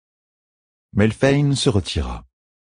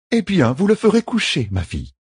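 friendly but firm; 11 semitones higher than usual. A narrator's reading. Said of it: "d'un ton amical mais ferme".

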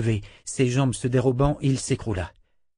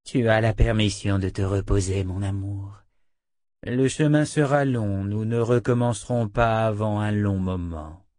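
gently soothing, lingering at the end; tender permission. Acted. Dena lets her captive rest, tenderly soothing.

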